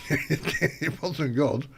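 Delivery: slow laughing words. Real, not acted. Laugh heard.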